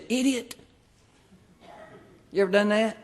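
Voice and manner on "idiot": mock road rage. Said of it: "laid on the horn and said".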